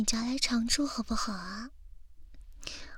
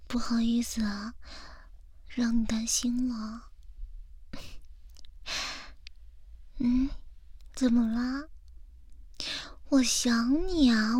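whispering. Acted. Whispered ASMR girlfriend talk.

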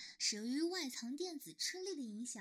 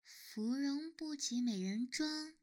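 poem recitation; slower than usual. Acted.

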